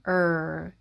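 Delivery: "얼" very slow with curled tongue; "얼" dil kıvrılarak çok yavaş; rolled-tongue R. Shown as a demonstration. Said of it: "혀를 굴리는 R 소리죠".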